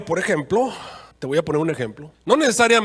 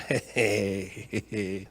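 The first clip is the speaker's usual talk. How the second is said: risita burlona; 8 semitones lower, 6 dB quieter than usual. Acted. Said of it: "la rana le dijo".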